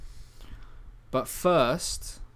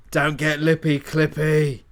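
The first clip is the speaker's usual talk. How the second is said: loud, sharp comeback; snappy retort; 7 dB louder, slower than usual. Acted. Character snapping back at his teammate mid-fight. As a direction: fire back the rhyme.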